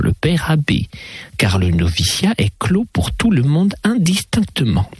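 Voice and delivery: lightly voiced lady with lilting pitch leaps; mademoiselle conteuse. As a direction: tell it in a lively, swooping lady's voice. Garembois tells the story. (conteuse un peu chantante, envolées aiguës)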